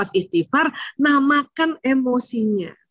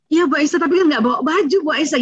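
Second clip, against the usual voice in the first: lightly voiced child; 5 semitones higher than usual. Child answers cheerfully.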